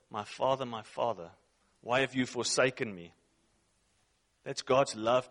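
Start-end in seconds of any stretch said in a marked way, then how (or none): 0.1-3.1 hushed, pleading, each Father quieter than the last; anguished cry from the cross. Retold or imitated. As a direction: let the cry fade into a broken murmur. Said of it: "Jesus is on the cross and he goes".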